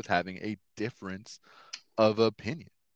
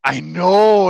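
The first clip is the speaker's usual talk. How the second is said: emphatic agreement; 8 semitones higher, 13 dB louder than usual. Real, not acted. Reacting to pastor's remark.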